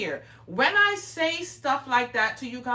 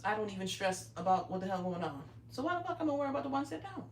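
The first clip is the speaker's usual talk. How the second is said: usual speaking voice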